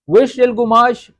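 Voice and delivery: teacher modelling slowly; slow model phrase. Shown as a demonstration. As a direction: lay it out clearly. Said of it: "کون سا کپڑا ہے".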